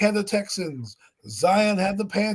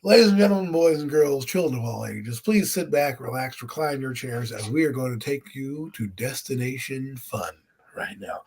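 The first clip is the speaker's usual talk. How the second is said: ringmaster; 4 semitones lower than usual. Acted. Circus-style welcome to the listeners.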